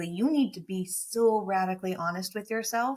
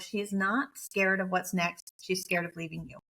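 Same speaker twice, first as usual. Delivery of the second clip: inner voice. Retold or imitated. Inner thought voiced, intuition message.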